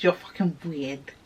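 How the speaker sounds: low, soft grudging remark; quiet aside. Retold or imitated. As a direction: drop your voice to a low aside. Aside giving grudging sympathy.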